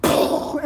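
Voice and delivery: whispered mortar pop. Retold or imitated. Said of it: "And then you hear".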